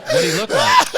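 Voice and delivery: detective's voice jumps very high; high squeaky question. Retold or imitated. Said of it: "And they're like".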